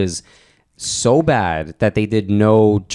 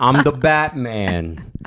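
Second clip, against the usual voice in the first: gruff Batman; much slower than usual. Retold or imitated. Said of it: "he would be more just like".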